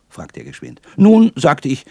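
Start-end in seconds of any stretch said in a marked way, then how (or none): 1.0-1.3 high, loud well; emphatic well. A narrator's reading. Boy answering the painter, emphatic high well. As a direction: launch the tale with a burst. Boy launches his boast.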